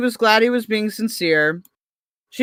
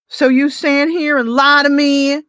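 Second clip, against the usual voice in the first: a higher, accusing read of the heroine's line; lightly voiced, indignant romance heroine; Tia's voice; 5 semitones higher, 4 dB louder than usual. Reading Tia confronting Paul, mildly accusing and higher. Reads Tia's dialogue aloud.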